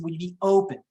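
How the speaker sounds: non-pushy question resting on the word "open"; emphasis on open. Shown as a demonstration. Agent just asking the seller, "open" stressed. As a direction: land lightly on "open". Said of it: "Again, the emphasis, the tone".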